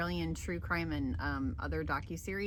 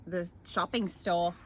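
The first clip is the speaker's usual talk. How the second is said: wandering mix of British and Australian; odd hybrid Australian-British accent; muddled Australian accent. Acted. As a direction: improvise in a wobbly Australian accent. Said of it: "that's a weird, that's like a combo".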